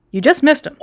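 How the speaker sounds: chirpy nervous shopkeeper; sea otter voice. Acted. Otter answers.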